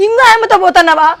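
high, crying complaint; wife sobbing at her cheating husband; tearful wife. Acted. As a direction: break into a wail of hurt. Wife upset over husband's affair.

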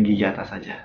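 lip held down by finger; talking with finger at mouth. Real, not acted. Seen 1: Finger presses lower lip corner down, teeth shown, while speaking.

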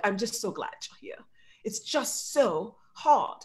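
lightly imitated British gentleman's accent; British accent, drawn out toward the end. New colleague greeting her on her second Harvard day, imitated British accent. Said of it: "white guy, British accent".

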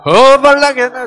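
전라도 사투리로 크게; Jeolla dialect. Shown as a demonstration. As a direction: shout out the Jeolla word 허벌나게. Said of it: "전라도 말로 하면 어떻게 돼요?".

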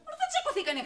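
high, loud objection; indignant, voice shooting up; exasperated protest. Acted. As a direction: cut off the nosy questioning. Exasperated at repeated prying.

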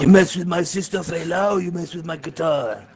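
lightly acted gangster-style accent of menace; mock threat. Acting out the threatening message.

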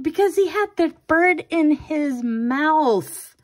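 high, loud, worked-up explanation; agitated retort. Retold or imitated. Mom defends screaming to daughter, agitated and loud. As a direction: fire it back, still rattled.

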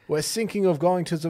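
halting, botched attempt at a Russian accent; failed Russian accent. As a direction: try a Russian accent and miss it. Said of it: "that's not a Russian accent".

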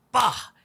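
sudden vocal thud; imitated bang. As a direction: mimic the bang heard through the door.

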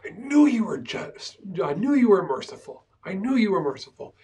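imitating a fed-up prophet; a frustrated Jonah blaming God's mercy; frustrated complaint. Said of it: "he's frustrated with God".

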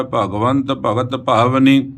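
slow, measured Gurbani reading; drawn-out verse reading; scripture recitation. Acted. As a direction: recite it slowly, word by word.

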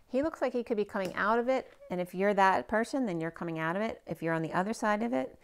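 strained, tired voice that's giving out; losing voice. Real, not acted. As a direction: speak with a voice that's going. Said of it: "I'm losing my voice".

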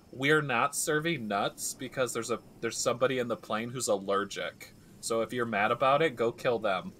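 hint of a cabin announcement; mock loudspeaker announcement. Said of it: "she gets on the loudspeaker".

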